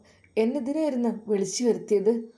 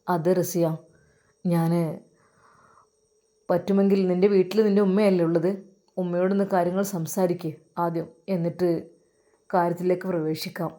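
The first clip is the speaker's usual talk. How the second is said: lower employer voice; 4 semitones lower than usual. Acted. Employer coaxing the housemaid Raziya, low and smooth. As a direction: speak down to her as the boss.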